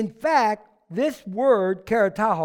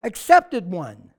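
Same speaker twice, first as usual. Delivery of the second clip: angel's announcement; 2 semitones higher, 7 dB louder, much slower than usual. Acted.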